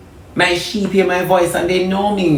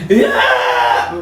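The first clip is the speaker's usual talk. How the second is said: exclaimed yeah; 5 semitones lower than usual. Real, not acted. Exclaims during sermon.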